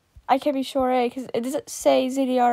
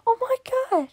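laughing; 8 semitones higher, 5 dB quieter, much faster than usual. Real, not acted. Laughing at a drawing.

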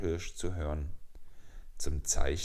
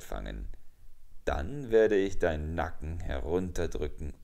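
threat swelling louder mid-line; menacing jackal; 4 dB louder than usual. Acted. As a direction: promise the kill, pushing it out. Jackal threatens his prey. (drohender Schakal, lauter werdend)

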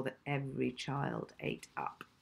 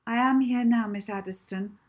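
protesting; 6 semitones higher, 7 dB louder than usual. Acted. Late girl protesting breathlessly.

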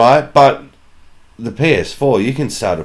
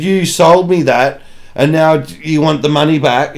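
mock indignant; 5 semitones higher than usual. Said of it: "I said".

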